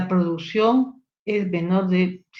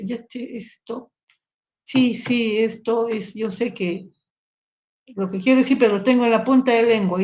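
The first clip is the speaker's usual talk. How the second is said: searching patient; 3 semitones higher than usual. Pretend. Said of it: "Eso se denomina anomia".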